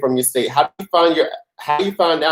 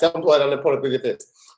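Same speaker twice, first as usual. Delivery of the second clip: said really fast, much faster pace. Daring listeners to say a tricky phrase quickly, the speaker says it really fast. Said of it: "Try saying that really fast".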